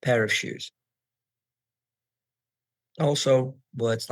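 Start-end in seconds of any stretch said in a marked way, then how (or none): 0.0-0.7 "of" reduced to "uhv" between "pair" and "shoes"; weak form. Shown as a demonstration. Teacher giving an example of weak forms, reduced "of". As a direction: link "pair of shoes" smoothly with an unstressed "uhv". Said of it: "pair of becomes pair of".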